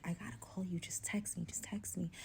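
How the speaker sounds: hushed, urgent phone whisper. Retold or imitated. Whispering to best friend on the phone while hiding, whisper. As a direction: whisper it so only the friend hears. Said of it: "on the phone with my best friend whispering".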